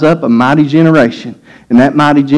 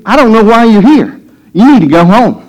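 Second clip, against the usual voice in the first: enemy's voice; 5 semitones higher than usual. Retold or imitated. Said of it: "That's the enemy speaking to you".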